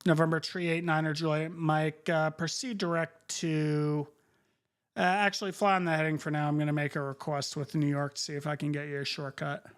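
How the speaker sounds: crisp controller radio call; air traffic control radio. Acted. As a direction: read clearances like a busy controller. Controller instructions.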